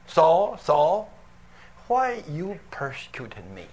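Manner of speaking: distant, fading voice calling from above; voice from heaven. Acted. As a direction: let it sound far off and solemn. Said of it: "A voice came".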